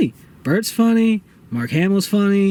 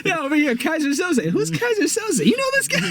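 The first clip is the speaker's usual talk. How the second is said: higher, mock tough mob boss; mobster voice; 7 semitones higher than usual. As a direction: play the gangster calling his men. Voicing the Russian mobsters.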